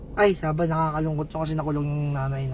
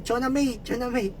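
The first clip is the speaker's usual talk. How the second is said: high, quick repeated calling of Chona May, softer at the end; high call of names; 5 semitones higher, 4 dB quieter than usual. Shown as a demonstration. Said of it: "Pag pinagsama". (tawag na Chona May, mataas)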